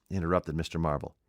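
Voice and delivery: ordinary delivery, nothing marked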